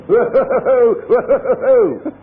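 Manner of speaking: high, loud laughing whoas. Acted. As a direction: shout whoa up high, laughing. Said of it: "said he".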